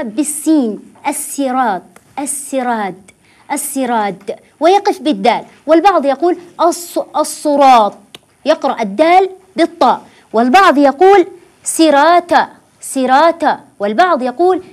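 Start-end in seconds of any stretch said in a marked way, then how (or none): 1.1-4.4 السراط with a light seen instead of saad; السراد ending in a dal, light s; wrong reading with seen. Shown as a demonstration. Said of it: "فهذه كلها غير صحيحة". 11.6-13.6 سراتا with a plain s and t and an added final vowel; سراتا, thin s and t; wrong reading. Shown as a demonstration. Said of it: "فهذه كلها غير صحيحة".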